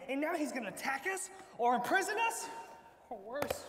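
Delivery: panicky shout. Acted. Panicked brothers fear the steward.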